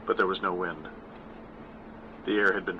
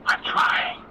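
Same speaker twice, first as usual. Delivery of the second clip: breathy unvoiced whisper of the wind; 3 dB louder than usual. A narrator's reading. The wind answering the mother, whispered. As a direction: let the wind sigh the words. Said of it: "the wind seemed to whisper".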